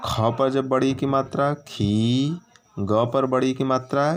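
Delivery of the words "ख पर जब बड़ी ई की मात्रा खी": खी with the vowel held long. Shown as a demonstration. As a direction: draw out the ई in खी. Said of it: "इसमें समय थोड़ा ज़्यादा लगता है".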